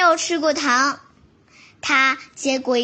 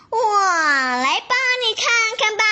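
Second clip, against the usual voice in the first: smiling; 4 semitones higher than usual. Acted. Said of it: "笑眯眯地说".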